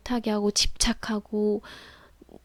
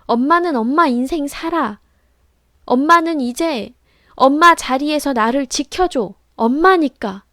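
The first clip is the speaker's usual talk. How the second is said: shouted declaration; 4 semitones higher, 10 dB louder than usual. Retold or imitated. Daughter in role-play shouting at her mother, loud and firm. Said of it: "이렇게 외치라고 하는데".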